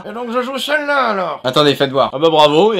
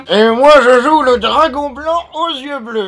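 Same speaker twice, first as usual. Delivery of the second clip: loud, slow proclamation; grandiose old headmaster; 3 semitones higher, 6 dB louder, slower than usual. Acted. Old man plays a card from another game, grandly loud. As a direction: declare it slowly like a mighty summoning.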